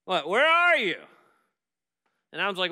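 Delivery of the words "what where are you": God calling out louder across the garden; a raised, searching call. Retold or imitated. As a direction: call his name as if searching for him. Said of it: "And he calls out".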